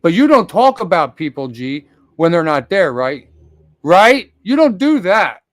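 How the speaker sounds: loud, pushing questions with rising rights; heated accusation. Real, not acted. Streamer confronting a friend for talking behind his back, angry loud jabs. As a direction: jab each right at him.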